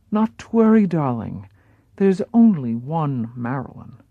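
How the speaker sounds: put-on light European accent, gently comforting; soothing European accent. Paula comforting Marilyn, mild European accent. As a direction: reassure her in a hint of European accent. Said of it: "in her curious European accent".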